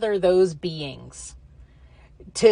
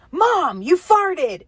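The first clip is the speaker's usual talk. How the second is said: higher, playful mock kid voice; teasing son; 10 semitones higher, slower than usual. Son teasing his mom about farting, mock kid voice. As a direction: tease mom like her son.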